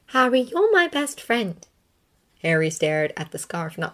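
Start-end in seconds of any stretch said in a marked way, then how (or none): 0.1-1.6 Hermione's voice. A narrator's reading. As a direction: call out with relief, pitched up.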